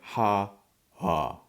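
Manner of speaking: ha, ha, the second dropping low; low conjugated form. Shown as a demonstration. Teacher demonstrating the conjugated form, dropping low. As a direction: let the second ha sink low. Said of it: "So it'd be something low".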